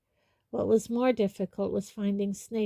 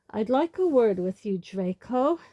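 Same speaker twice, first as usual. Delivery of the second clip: sudden; 5 dB louder than usual. Acted. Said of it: "said Snape suddenly".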